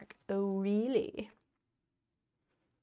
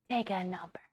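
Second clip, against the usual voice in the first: whisper. Acted. Mock bureaucrat brushing off complaint.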